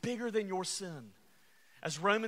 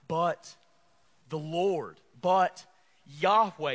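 But... Yahweh, louder with pauses; emphatic; 8 dB louder, slower than usual. Acted. Preacher stressing God's covenant name, louder. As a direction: call out each word, spaced.

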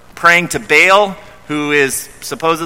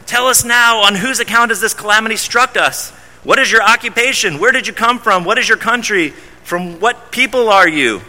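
higher, rapid-fire questions; anxious questioning; 6 semitones higher than usual. Retold or imitated. Sailors grilling Jonah in fear, raised pitch. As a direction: press him for answers.

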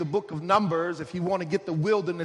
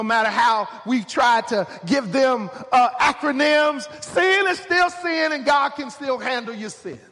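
higher, emphatic pulpit delivery; raised-voice preaching; 5 semitones higher, 5 dB louder than usual. Real, not acted. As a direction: drive it home like a preacher.

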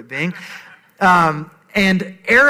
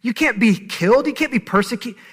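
rising, pleading and louder as it builds; higher and higher mock-panicked denial; panicked protest; 5 semitones higher, 4 dB louder than usual. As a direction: imitate Peter's panic climbing higher. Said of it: "Peter's freaking out internally".

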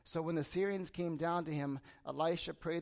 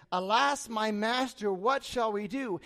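mildly alarmed servant, a little louder; freaking out; 3 semitones higher, 5 dB louder, slower than usual. Retold or imitated. Servant to his master on seeing the army, mildly freaking out. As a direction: act out a worried plea, dragging the end. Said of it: "He's freaking out".

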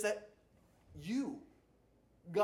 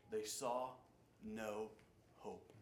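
fading to a hush; 9 semitones lower, 10 dB quieter, slower than usual. Acted. Preacher telling the congregation the sailors saw no hope, fading to a hush. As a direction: trail off softer on each word.

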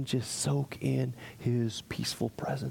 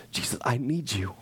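whispered plea. Acted. Whispered model prayer.

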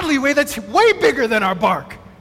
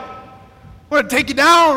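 mock schoolyard threat; 3 dB louder, slower than usual. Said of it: "they were loud about it".

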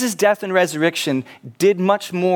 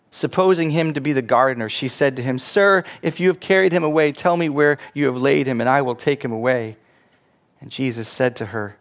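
measured, solemn Bible reading; scripture reading. Acted. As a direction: read the Gospel aloud with reverence. Preacher reads the Gospel passage.

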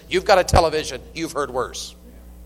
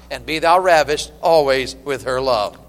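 raised, declaimed Bible verse, easing down at the end; stately pulpit reading; Scripture reading; 3 semitones higher, slower than usual. Acted. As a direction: read it out to the congregation like holy writ. Reads Scripture aloud.

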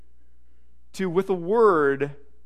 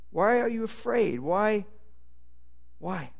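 softer repeat; 9 dB quieter than usual. Shown as a demonstration. Preacher quietly echoing Jesus' question to the congregation. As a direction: drop the voice and let the question linger.

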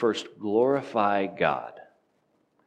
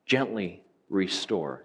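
gently drawn out slowly with weight; stress on gently; slower than usual. Shown as a demonstration. Pastor urging the congregation, slow stress on gently. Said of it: "Emphasis on the gently".

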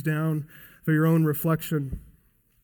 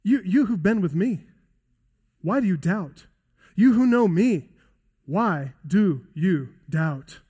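pleading rebuke. Acted. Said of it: "He's saying, No".

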